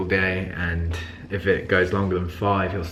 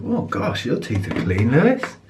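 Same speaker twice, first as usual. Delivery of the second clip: dentist voice; 4 semitones higher than usual. Pretend. Dentist voiced praising teeth.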